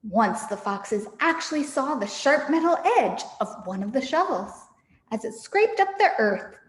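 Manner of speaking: put-on lively read-aloud for children; story narration. A narrator's reading. The speaker reading Fantastic Mister Fox to her listeners. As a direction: tell it like a bedtime story.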